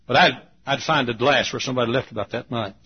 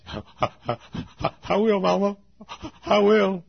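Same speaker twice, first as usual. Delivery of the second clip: put-on meek child's promise; 10 semitones higher, 4 dB louder than usual. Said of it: "I said".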